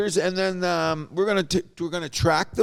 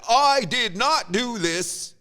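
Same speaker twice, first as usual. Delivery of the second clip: mock solemn denial; 4 semitones higher, much slower than usual. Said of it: "did that acting job and said".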